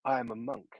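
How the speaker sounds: a light, understated mock Chinese accent. Mocking how Wu masters talk, light mock Chinese accent. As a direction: lightly parody a kung fu movie monk in a mock Chinese accent. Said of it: "mock Chinese accent. And it's like this".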